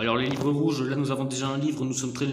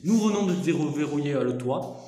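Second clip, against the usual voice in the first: put-on southern French accent, louder; hammed-up accent du sud narration; 5 dB louder than usual. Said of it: "je peux essayer de faire l'accent du sud". (accent du sud forcé)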